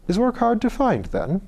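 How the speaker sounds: high, curious Irish lord; Irish accent. Acted. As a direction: wonder aloud in an Irish lilt. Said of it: "He spoke with an Irish accent".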